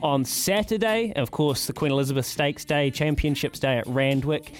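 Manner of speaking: upbeat radio roundup read; sponsored segment read. Acted. Host reading the sponsored sports guide to listeners, upbeat announcer style. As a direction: sell the weekend fixtures like an ad.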